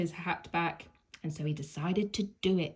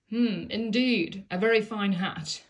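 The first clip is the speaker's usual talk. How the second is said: haughty giraffe; 2 semitones higher, 5 dB louder than usual. Acted. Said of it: "she said".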